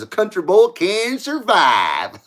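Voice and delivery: slow, lightly drawled country twang; a self-admitted bad Southern redneck voice, drawn out; redneck imitation. Host reading a viewer's line, in a mock Southern accent. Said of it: "That was my best redneck imitation".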